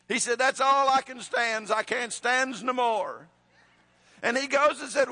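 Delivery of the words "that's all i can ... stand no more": lightly voiced Popeye, a bit higher and slowing down; a hint of Popeye's fed-up grumble. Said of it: "he had a Popeye moment".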